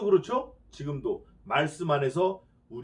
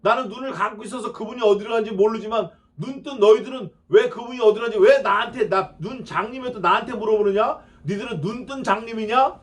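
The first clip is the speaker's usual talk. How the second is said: indignant healed man; 5 semitones higher, 3 dB louder than usual. Acted. Healed man mocking the Pharisees.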